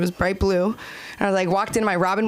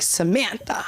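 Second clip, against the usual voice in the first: dramatic whisper; slower than usual. Retold or imitated. Dad's ominous text read aloud.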